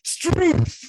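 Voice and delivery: high falsetto "Struth"; silly high-pitched cry; Monty Python. Pretend. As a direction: squawk "Struth" like a sketch comic. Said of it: "too much Monty Python".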